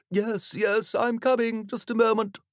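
high, distant call of the vicar. Acted. Vicar calling from inside.

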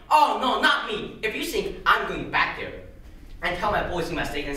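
emphatic protest, punching the opening words; indignant refusal. Acted. Mister Smith refuses to go back defeated, indignant. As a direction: refuse it outright.

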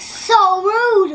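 indignant. Pretend. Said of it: "Ronald was like".

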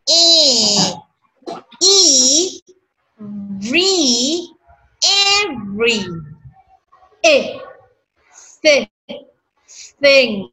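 "Every" drawn out slowly, syllable by syllable. Shown as a demonstration. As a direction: stretch "Every" slowly apart. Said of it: "ép cái âm qua này". (đọc chậm "Every" từng âm)

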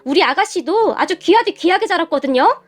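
indignant confrontation, short of a shout. Acted. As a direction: challenge them with rising outrage. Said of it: "제 목소리가 아주 컸던지". (언성을 높여 따지듯)

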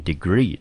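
degree said clearly for learners; teacher's demonstration of degree; pronunciation of degree. Shown as a demonstration. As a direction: model the word degree. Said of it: "英文就念成degree".

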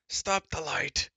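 slow, high, loud pained shriek; the blinded giant shrieks slowly. Acted. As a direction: drag out the shriek in pain. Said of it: "he shrieked".

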